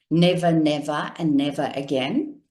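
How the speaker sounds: "Never, never, and never again" in one quick run; run-on, no cadence. Shown as a demonstration. Coach showing how Mandela didn't say it, run together. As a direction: skip the pauses between each "never". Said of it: "He didn't say".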